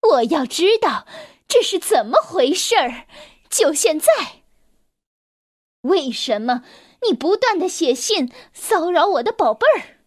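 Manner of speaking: demanding. Acted. Mother demanding answers.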